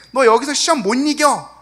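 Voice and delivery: loud, high preachy scolding of a suffering friend; scolding rebuke. Retold or imitated. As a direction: lecture him harshly about God's test.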